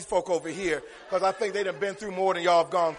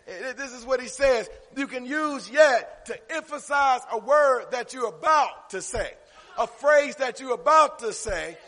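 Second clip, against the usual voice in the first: preacher hammering out key words; emphatic preaching; 6 semitones higher, 7 dB louder than usual. Real, not acted. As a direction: drive each phrase home to the congregation. Preaching the definition again.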